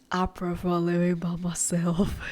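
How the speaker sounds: hushed, conspiratorial admission; whispered confession. Real, not acted. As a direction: whisper it like a guilty secret. Confesses preference as aside.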